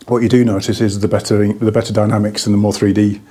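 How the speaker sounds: slightly breathless, short of air; out of breath. Real, not acted. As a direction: talk while catching your breath. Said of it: "I'm out of breath again".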